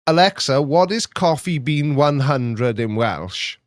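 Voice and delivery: deliberate, drawn-out smart-speaker query; mock voice command. Asking Alexa for a Welsh translation, deliberate command. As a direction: address the device slowly and clearly.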